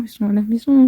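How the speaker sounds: usual speaking voice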